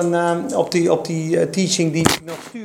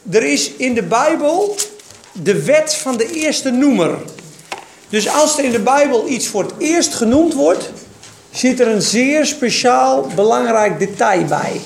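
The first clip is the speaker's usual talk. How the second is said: higher and louder, preaching in full swing; 6 semitones higher, 3 dB louder than usual. Acted. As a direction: proclaim it to the congregation. Preaching with raised voice. (luid en hoog preken)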